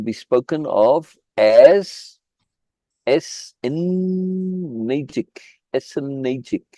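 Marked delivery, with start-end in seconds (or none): 3.1-5.3 "essenagic" sounded out very slowly, higher, middle drawn long; careful foreign-word pronunciation. Shown as a demonstration. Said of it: "I am hoping I pronounced that right". 5.7-6.6 "Essenagic" said softly, syllable by syllable; careful foreign-word pronunciation. Shown as a demonstration. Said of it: "I am hoping I pronounced that right".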